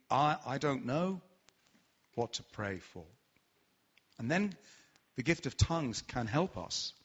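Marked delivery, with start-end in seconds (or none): 0.1-3.0 a quiet, unsure, lost admission; voicing confusion. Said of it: "of feeling".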